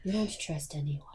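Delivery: soft, whispered aside; whispered retort. Acted. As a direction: whisper it back within the huddle. Murmured reply in the huddle.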